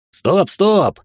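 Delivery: high, yelled plea to stop; yelling. A narrator's reading. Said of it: "завопил я".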